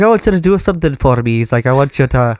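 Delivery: imperfect imitation of an Irish bandmate; rough Irish accent, asking a favour; attempted Irish accent. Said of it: "can't really do ... an Irish accent".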